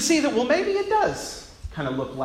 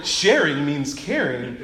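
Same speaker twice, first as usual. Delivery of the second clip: Barney voice; 4 semitones lower, slower than usual. Retold or imitated. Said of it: "my best Barney the Dinosaur voice".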